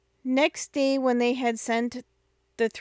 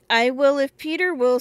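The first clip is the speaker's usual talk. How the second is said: sniffling; 4 semitones higher, 6 dB louder than usual. Acted.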